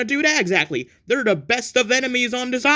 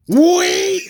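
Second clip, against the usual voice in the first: indignant blame; 3 semitones higher than usual. Acted. Blaming friend in argument.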